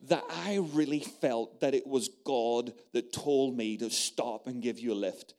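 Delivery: soft, hushed confiding; quietly retelling a friend's tender confession; gentle quiet quote. Retold or imitated. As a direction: tell her gently, almost a secret. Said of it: "this is what she said".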